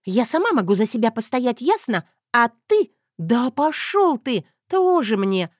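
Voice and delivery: feisty heroine snapping at a man. Acted. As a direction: rant at him, fed up and feisty. Zoya's voice, angry rant.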